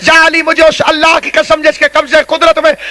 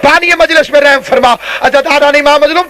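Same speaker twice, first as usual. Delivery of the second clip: impassioned supplication before a congregation; rolling majlis invocation; fervent preacher's prayer. Real, not acted. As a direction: call down blessings in a steady, urgent flow.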